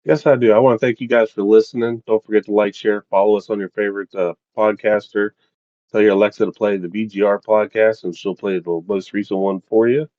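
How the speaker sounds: upbeat host sign-off; bright announcer wrap-up; podcast outro. Acted.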